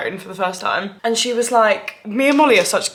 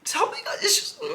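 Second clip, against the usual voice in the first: laughing; 11 semitones higher, 7 dB quieter than usual. Retold or imitated. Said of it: "She was like".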